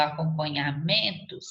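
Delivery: "acompanhamentos" with MEN leaned on; stress on penultimate syllable. Shown as a demonstration. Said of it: "a sílaba tônica é a penúltima".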